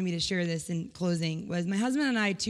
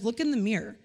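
voice of God; 5 dB louder than usual. Retold or imitated. God answers in her story.

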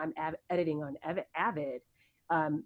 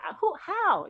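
mock baffled, much higher and louder; 7 dB louder, slower than usual. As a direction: stammer out disbelief at the driver. Her baffled reply to the driver.

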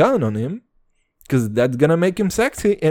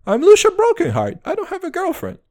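playboy persona; 13 semitones higher, 6 dB louder than usual. Pretend. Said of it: "I'm Lucia Brokenheart right now".

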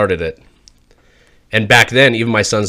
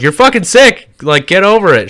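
high-pitched exasperated retort; retold exasperation; 7 semitones higher, 3 dB louder than usual. Husband telling crying wife to get over it, exasperated. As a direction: act out an impatient reply.

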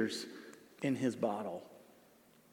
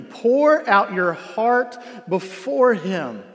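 louder, slow, pressing every word; preached urgently; 6 semitones higher, 8 dB louder, slower than usual. Shown as a demonstration. Pastor urges the church to open up, loud and slow. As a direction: drive the verse home to the church. Preaching the verse back with force.

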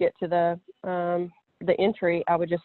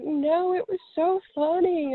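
amused teacher; 10 semitones higher, slower than usual. Retold or imitated. Teachers laughing it off.

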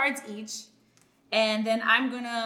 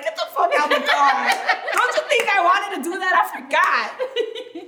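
louder, higher, laughing fake outburst; half-yell it through laughter; laughing mock yell; 7 semitones higher, 9 dB louder than usual. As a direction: mom fuming at her daughter's hindsight, loud and laughing. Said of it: "I wanted to pull over and be like".

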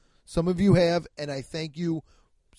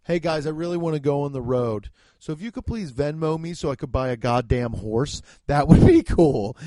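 mock podcaster plea; 6 dB louder than usual. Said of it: "You know what I'm not on my podcast doing?".

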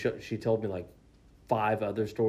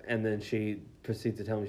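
usual speaking voice

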